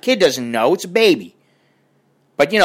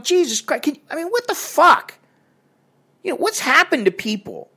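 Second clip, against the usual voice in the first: exasperated outburst; 9 semitones higher, 3 dB quieter than usual. Retold or imitated. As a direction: vent in high-pitched disbelief. Retells exasperation at loud talker.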